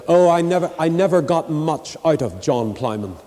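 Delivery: imitating a pompous gentleman; lightly put-on snootiness; mock snooty. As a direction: look down your nose, mockingly. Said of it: "said to me very snootily".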